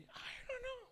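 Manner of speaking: high, bewildered little voice; confused newcomer. Acted. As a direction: play a lost soul who knows nothing. Thief answers again. (suara tinggi bingung orang baru)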